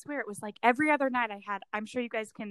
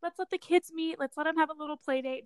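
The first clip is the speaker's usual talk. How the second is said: higher, chirpy planning voice; acted eagerness; 6 semitones higher than usual. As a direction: pitch the playdate idea eagerly. Quotes the moms planning a playdate.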